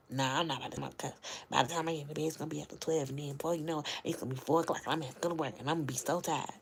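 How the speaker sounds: lightly voiced grumpy man, hurried; grumpy husband. Quoting her tired husband, lightly voiced grumpy husband. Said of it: "he come down here with an attitude like".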